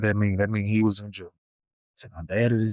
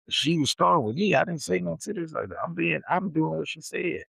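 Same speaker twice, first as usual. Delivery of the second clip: whiny protest; 6 semitones higher than usual. Retold or imitated. Kid pleading his case to dad.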